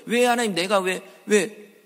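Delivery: a touch of indignant crying out; demanding why. Retold or imitated. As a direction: press God for an answer, heated. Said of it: "하나님한테 따지고 드는 거예요".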